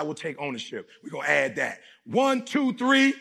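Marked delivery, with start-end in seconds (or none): 2.0-3.1 rallying count-in. Real, not acted. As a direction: fire them up with the count. Rallying crowd to chant again.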